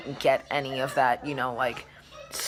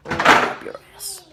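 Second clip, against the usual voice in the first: defiant; 9 dB louder, slower than usual. Real, not acted. Defiant jab at haters.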